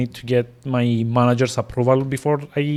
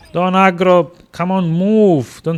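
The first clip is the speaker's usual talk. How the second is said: urgent pleading; 7 semitones higher, 6 dB louder, slower than usual. Real, not acted. Urging game character on stream.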